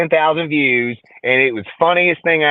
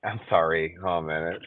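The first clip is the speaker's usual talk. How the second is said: flustered apology; 4 semitones lower, 5 dB quieter than usual. Real, not acted. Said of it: "Oh, shit".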